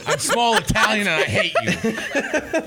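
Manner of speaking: mock Jersey accent; a touch of angry Jersey Italian; John. Mocking an absent friend's rant, angry Jersey accent. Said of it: "become Jersey".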